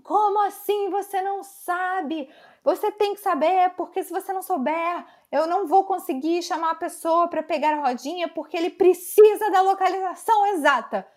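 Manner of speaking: high, exasperated scolding; imitated yelling. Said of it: "mas ela gritava, gritava, gritava".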